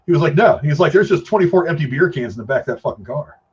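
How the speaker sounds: usual speaking voice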